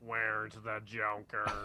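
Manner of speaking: slow put-on Batman voice. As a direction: ask it like Batman.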